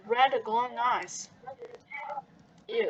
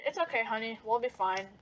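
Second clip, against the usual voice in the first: reassuring; 6 dB quieter than usual. Acted. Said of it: "Gloria assured him".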